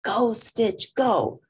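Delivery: high, loud cheer; girl cheering her dog at the show, loud and high; cheering shout. Acted. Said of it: "Lilo shouted".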